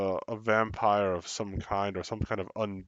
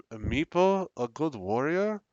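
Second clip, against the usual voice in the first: indignant NPC; 5 semitones higher than usual. Acted. NPC indignant about Meepo.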